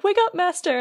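high-pitched little helper voice; cute retold plea. Clock helper trying to rouse Beast, cute high voice. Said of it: "it's just really cute".

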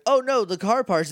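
high, loud mock dismay. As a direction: wail it like a cartoon heroine. Mocking character dialogue.

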